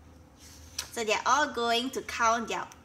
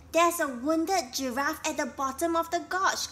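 shouted; 6 semitones higher, 4 dB louder than usual. A narrator's reading. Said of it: "Shouted Gru as he landed".

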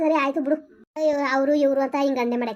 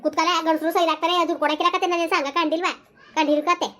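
scolding; 3 semitones higher than usual. Acted. Mother berates son about the missing wife and loan, angrily. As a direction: tear into him over the debt.

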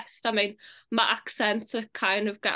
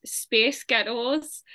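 slow American accent demo; much slower than usual. Shown as a demonstration. Showing an accent trick, slowly in an American accent. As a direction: say "space ghettos" slowly, American style. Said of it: "in American accent, if you say".

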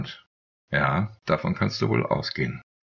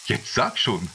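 curious; 7 semitones higher, slower than usual. A narrator's reading. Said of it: "hakte Agathon neugierig nach".

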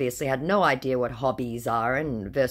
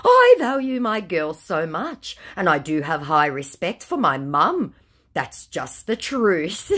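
mock scammer voice; 4 semitones higher, 6 dB louder than usual. Reading the scammer's message to her audience, mock sweet. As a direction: lightly send up the smooth scammer.

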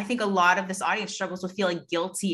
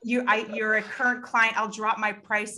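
hurried appeasing; 3 semitones higher than usual. Acted. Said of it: "we try to ease their pain".

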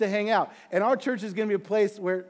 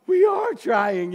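slow, loud, strained protest; a burst of frustration at the advice; exasperated shout; 5 semitones higher, 6 dB louder, much slower than usual. Retold or imitated. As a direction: push back hard and slow. Exasperated reply to his elder.

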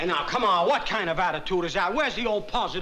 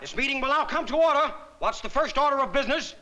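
higher-pitched call to order; mock chairman; 5 semitones higher, 3 dB louder than usual. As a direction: open the meeting like a self-important chairman. Mock chairman opening a meeting.

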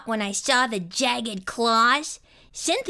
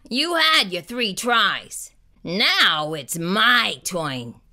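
low gruff monster, slowing down; grunting Gabe; 5 semitones lower, slower than usual. A narrator's reading. Monster taking his turn, low slow grunt. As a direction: grunt it out, dropping low at the end. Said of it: "he grunted".

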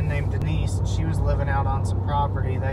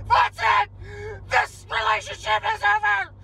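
mock outburst. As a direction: shout it as a hammed-up dramatic breakup. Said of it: "she's like".

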